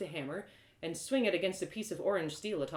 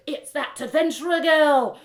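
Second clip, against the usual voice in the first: townsfolk murmur; 9 semitones higher, 12 dB louder than usual. Acted.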